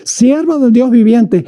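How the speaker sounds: drawn-out sorrowful call to Daniel; sad calling king. Acted. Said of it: "llamó a voces a Daniel con voz triste".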